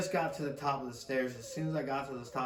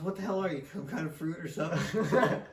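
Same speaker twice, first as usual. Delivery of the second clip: higher, a light mock of a gruff grandpa with a laugh; grandpa scolding; 4 semitones higher than usual. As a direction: tease the old man's disbelief, laughing through it. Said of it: "he saw it and he goes".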